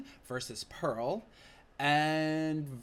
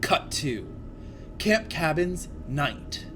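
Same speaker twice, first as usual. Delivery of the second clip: dramatic script reading; 4 dB louder than usual. Acted. Reading screenplay aloud dramatically.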